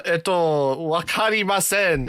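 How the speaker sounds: slow, halting learner's Japanese; broken beginner Japanese. Acted. Feigning poor Japanese to dodge recruiters, slow and halting. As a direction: stretch it out like a lost beginner. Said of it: "I would just be like".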